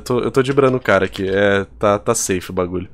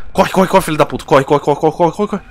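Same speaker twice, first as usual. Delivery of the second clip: being chased; 3 semitones higher than usual. Real, not acted.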